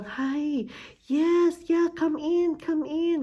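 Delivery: high, sweet welcoming voice throughout; gentle Canadian greeting. Retold or imitated. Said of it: "Mga ganun pa sila magsalita". (malambing at mataas na boses ng Canadian na nag-aanyaya)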